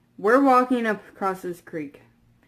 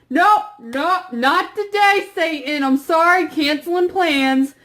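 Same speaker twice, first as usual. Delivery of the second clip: panicked bailing out; 5 semitones higher than usual. Retold or imitated. Fleeing strange voices in dark creek.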